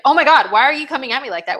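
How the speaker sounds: quick, exasperated husband; lightly acted accusing rush; imitated exasperation. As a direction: fire it off as a mock complaint. Retelling husband's startled complaint.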